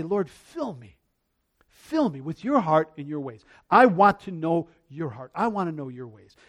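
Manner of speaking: low, softened plea to God; heartfelt prayer. Retold or imitated. Preacher showing his prayer before Bible study, earnest and low. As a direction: pray it gently and low.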